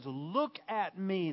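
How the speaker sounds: Peter commanding. Retold or imitated. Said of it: "Peter looks at this man and he says".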